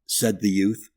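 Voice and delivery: plain reading voice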